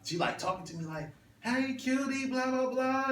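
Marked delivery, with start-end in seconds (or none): 1.4-3.0 high-pitched mock flirty woman; singled-out cutie greeting, high voice.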